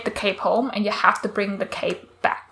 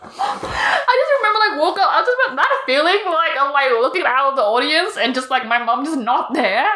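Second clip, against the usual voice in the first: teary; 5 semitones higher than usual. Real, not acted. Recalling the dream, emotional.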